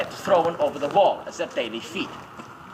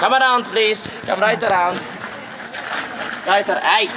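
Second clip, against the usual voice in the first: raised voice, herding the group; calling out; 3 semitones higher, 4 dB louder than usual. Real, not acted. Tour guide calls the group to gather round, loudly. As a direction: call loudly to gather the crowd.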